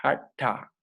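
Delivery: "hatha" with the tongue drawn back for the t; retroflex T. Shown as a demonstration. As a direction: demonstrate "hatha", curling the tongue on the t. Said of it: "La lengua se retrae".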